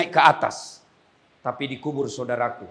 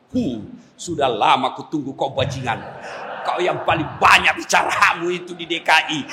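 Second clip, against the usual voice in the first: menacing angel; 2 semitones higher than usual. Acted. Angel arrives with his hammer.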